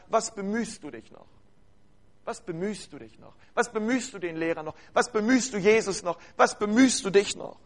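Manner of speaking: a doubting inner voice, hushed and insistent; discouraging voice. Retold or imitated. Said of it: "eine ganz andere Stimme".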